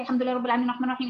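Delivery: "الحمد لله رب العالمين" rattled off very fast; rushed recitation. Shown as a demonstration. Teacher showing recitation that is too fast. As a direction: race through the verse. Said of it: "لا، لا، مش عايزة سريع كده".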